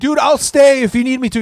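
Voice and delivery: mock pleading. Own reply to screaming boss.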